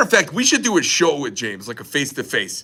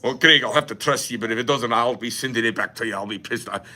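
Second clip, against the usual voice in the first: British customer; 3 semitones lower than usual. Retold or imitated. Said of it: "oiky British".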